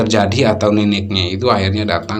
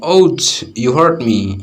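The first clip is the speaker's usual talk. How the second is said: hurt; 3 semitones higher, much slower than usual. Shown as a demonstration. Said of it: "dia itu disakiti".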